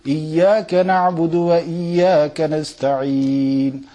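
melodic chanted recitation of Fatiha; chanted Quranic recitation. Acted. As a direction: recite it in a flowing tune.

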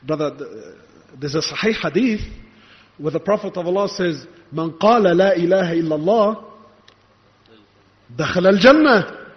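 low, measured objection; understated mimicry of a brother making his case; brother citing hadith. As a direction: offer the hadith as a calm counterargument. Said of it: "the brother might tell me".

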